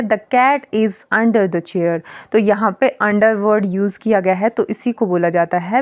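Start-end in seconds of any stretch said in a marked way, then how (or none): 0.0-2.0 slow example read. Shown as a demonstration. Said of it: "जैसे है".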